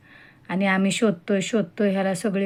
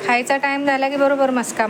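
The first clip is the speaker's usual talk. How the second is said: 1 teasing the dog; 6 semitones higher than usual. Real, not acted.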